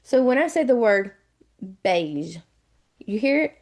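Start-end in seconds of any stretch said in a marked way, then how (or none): 1.8-2.4 beige in a strong Southern accent, low in pitch; deep Southern accent. Shown as a demonstration. Teacher showing students the A sound in beige, deep Southern accent. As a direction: lean hard into a Southern "beige". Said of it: "my very deep Southern accent".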